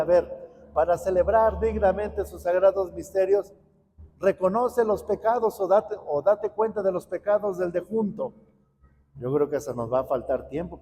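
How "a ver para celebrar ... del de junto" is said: mock reworded priest's call. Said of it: "si el sacerdote dijera".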